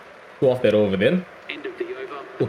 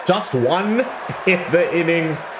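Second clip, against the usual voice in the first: laughing; 9 semitones higher, 3 dB louder than usual. Real, not acted. Laughing at quick dismissal.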